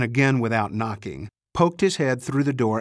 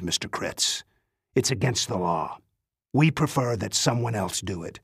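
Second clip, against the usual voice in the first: a hint of a cool old spy chief; old spymaster voice.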